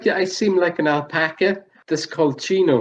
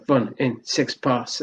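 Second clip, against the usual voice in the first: William Shatner impression; slower than usual. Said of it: "I'm doing William Shatner".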